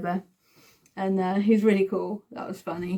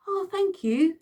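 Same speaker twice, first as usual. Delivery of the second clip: high-pitched, grateful little reply; imitated thanks; 10 semitones higher, slower than usual. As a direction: act out a starstruck thank-you up high. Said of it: "like that".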